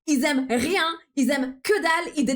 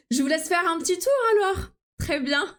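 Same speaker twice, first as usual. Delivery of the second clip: higher, sweet shop assistant voice; voix aimable de vendeuse; French customer service voice; 5 semitones higher than usual. Shown as a demonstration. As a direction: politely leave the customer to browse. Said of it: "customer support voice".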